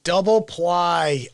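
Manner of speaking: slowly drawn-out catchphrase, lightly imitated; mock catchphrase. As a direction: stretch it out like a quoted punchline. Quoting own sketch catchphrase fondly.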